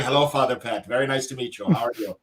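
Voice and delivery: put-on Irish accent. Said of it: "they totally are like".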